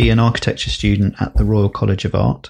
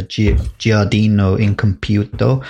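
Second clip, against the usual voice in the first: Italian-accented project name; a touch of Italian accent. Shown as a demonstration. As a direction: lightly put on an Italian accent. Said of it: "that's my Italian accent there".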